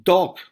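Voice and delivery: dog, the D punched loud; dog with a hard D. Shown as a demonstration. Teacher drills the English D, punched loud.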